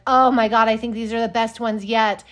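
mock delight. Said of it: "she's like".

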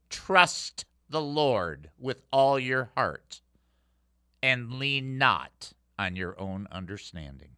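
slow, weighty phrases with long pauses; solemn scripture quote. Real, not acted. Preacher answers the troubled listener with scripture, solemn and slow. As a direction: recite it slowly, dropping low at the end.

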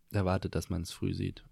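something caught in the throat; throat catching mid-sentence; frog in throat. Real, not acted. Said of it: "Ui, ich hab irgendwas im Hals".

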